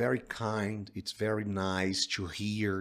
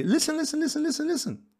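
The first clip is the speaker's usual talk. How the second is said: insistent calling; 5 dB louder than usual. Acted. Father cutting in during quarrel.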